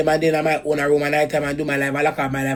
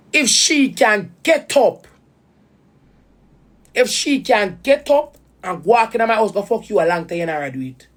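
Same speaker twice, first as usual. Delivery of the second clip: pained, rising to a higher voice; emotional, high-pitched; 4 semitones higher than usual. Real, not acted. Upset woman confronting her baby father, emotional. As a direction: voice pitched up with hurt, slowed. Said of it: "And I get so emotional".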